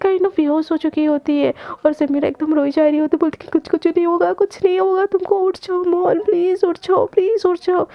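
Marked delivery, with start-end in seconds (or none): 3.5-7.9 crying. Acted. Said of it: "ऐसे बोल के ना वो रो रही होती है".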